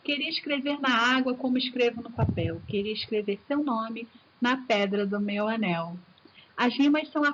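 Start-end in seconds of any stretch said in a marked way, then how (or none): 0.0-6.0 poem reading. Shown as a demonstration. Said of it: "Olha que gostoso".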